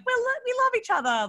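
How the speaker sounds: mock sappy toast. Mock wedding speech.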